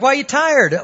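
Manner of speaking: retold incredulous question, pitched well up; puzzled question. Interviewer questioning a tired job applicant, puzzled. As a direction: ask it high, in mock bafflement.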